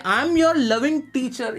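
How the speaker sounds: very slow, careful classroom reading; slow example read. Shown as a demonstration. Teacher dictating homework sentence to class, very slow. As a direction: stretch every word for the students.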